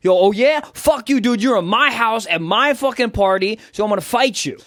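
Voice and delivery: hammed-up fighting talk; mock confrontation. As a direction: square up like a territorial host. Acted territorial party quarrel.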